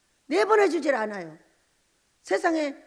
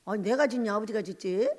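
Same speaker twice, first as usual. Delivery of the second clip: retold retort. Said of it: "하면서 싸움을".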